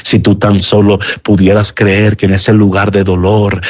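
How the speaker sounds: reach the listener gently; tender appeal. Real, not acted.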